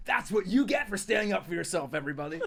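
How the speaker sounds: lilting Welsh accent. Shown as a demonstration. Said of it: "I should do my Welsh accent".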